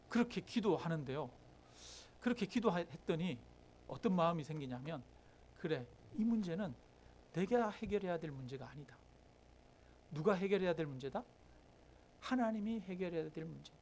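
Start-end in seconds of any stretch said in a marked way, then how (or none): 5.6-13.8 quiet realization. Retold or imitated. Acted inner realization after praying.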